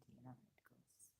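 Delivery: hushed whisper as the excitement settles; whispered aside. Real, not acted. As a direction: drop to a breathy aside. Describes excitement calming down.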